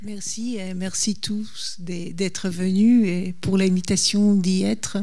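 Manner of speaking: non-native speaker's French; careful French with a foreign accent. Real, not acted. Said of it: "pardon si mon français, ce n'est pas comme j'aurais voulu".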